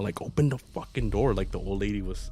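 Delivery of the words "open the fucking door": freaking out. Retold or imitated. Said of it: "she started freaking out".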